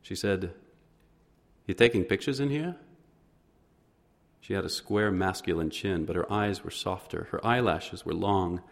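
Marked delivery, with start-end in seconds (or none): 1.7-2.8 higher, louder pointed question; suspicious challenge. A narrator's reading. Fish house woman challenging the man filming her, suspicious and loud. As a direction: call out the stranger filming.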